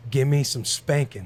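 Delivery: slow insistent repeat. Retold or imitated. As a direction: GIVE ME SOME SPANKINGS slowly spaced out. Repeats request after her "What?.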